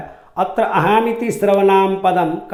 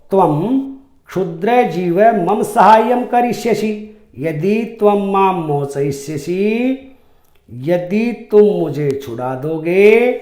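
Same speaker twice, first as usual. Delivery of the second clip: mocking lion; 3 semitones higher than usual. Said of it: "उपहासपूर्ण हंसी में शेर बोलता है".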